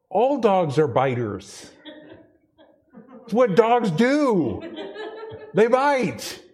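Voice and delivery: high, laughing insistence that all dogs bite; exasperated protest. Retold or imitated. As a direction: pitch it way up, half laughing, pleading. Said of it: "And we're like".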